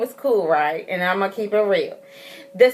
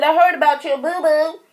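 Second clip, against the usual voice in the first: put-on higher-pitched baby-talk sympathy; retold cooing; 5 semitones higher than usual. Mother greeting baby home after fall, light cooing. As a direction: coo it lightly, as to a hurt baby.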